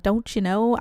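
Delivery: put-on lightly done Minnesota-Wisconsin accent; a hesitant go at a Minnesota accent; attempted Minnesota accent. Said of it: "he definitely would say".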